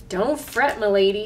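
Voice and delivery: talking through toothpaste; words round a mouthful; mouth full. Acted. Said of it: "through a mouthful of toothpaste".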